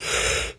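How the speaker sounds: quiet airy yawn. Real, not acted. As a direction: let out a real yawn. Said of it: "I'm sorry I keep yawning".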